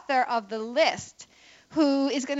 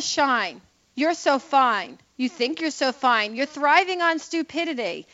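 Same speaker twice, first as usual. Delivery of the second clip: mocking poem reading. Shown as a demonstration. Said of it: "I just have to read it".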